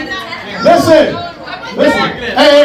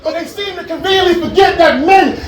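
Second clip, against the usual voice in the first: ranting; 4 semitones higher than usual. Real, not acted. Ranting at the crowd.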